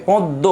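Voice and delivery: পদ্ম with a nasalised open first vowel, "pawn-do"; nasalised pronunciation. Shown as a demonstration. Teacher sets the other word apart, nasalised pronunciation. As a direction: say পদ্ম with chandrabindu nasal sound. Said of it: "চন্দ্রবিন্দু আসবে যদিও এটা".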